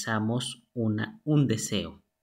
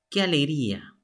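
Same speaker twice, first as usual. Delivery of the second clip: mock joyful exclamation, a bit higher; 4 semitones higher, 3 dB louder, faster than usual. Shown as a demonstration. Teacher showing exclamative intonation, mock joyful. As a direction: exclaim it like happy news, half-ironic. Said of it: "Aquí tiene que ver mucho la entonación".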